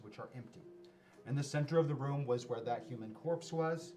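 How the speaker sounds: narrating a scene for the players; game master scene setting. Acted. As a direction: read the room description aloud. Game master reads room description.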